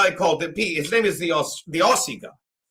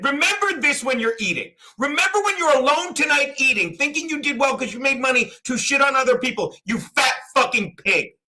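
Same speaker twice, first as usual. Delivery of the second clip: retold tirade; 5 semitones higher than usual. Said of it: "'cause I'm yelling".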